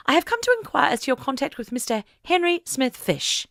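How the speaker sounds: lightly voiced strict matron, questioning; stern voice. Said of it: "she put on her most stern voice, borrowed from her mother".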